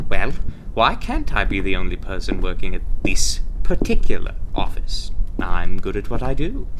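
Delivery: projected, self-assured boast; loud, confident host voice; loud ushering. Acted. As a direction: usher the candidate along at full volume. Ushers recruit in, still projecting.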